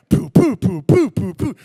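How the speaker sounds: loud punchy mouth-drum booms; loud vocal drum hits; drumbeat booms. Retold or imitated. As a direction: thump out the song's beat with your voice. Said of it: "it has that".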